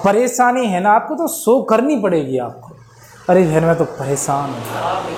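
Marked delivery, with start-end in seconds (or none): 3.3-5.1 lower, slow, troubled complaint; showing distress. Shown as a demonstration. A woman complaining to her friend, troubled and slow. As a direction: let the worry show in the voice. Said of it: "ऐसे show करनी पड़ेगी".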